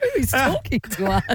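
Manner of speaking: startled, laughing; laughing in surprise; surprised. Retold or imitated. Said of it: "that was the voice of God".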